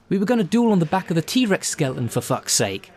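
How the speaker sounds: fast, high, wound-up complaint; frustrated venting. Real, not acted. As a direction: spill out the grievance in a rush.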